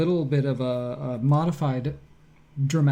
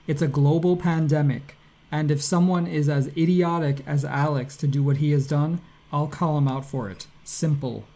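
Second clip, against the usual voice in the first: dramatic reading of Nick; 3 dB louder than usual. Retold or imitated. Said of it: "I'm not gonna do the accent".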